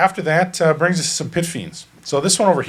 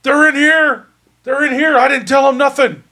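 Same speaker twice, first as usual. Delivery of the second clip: high, loud yell to give others away; panicked yelling; 12 semitones higher, 5 dB louder than usual. Acted. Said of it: "So he starts yelling".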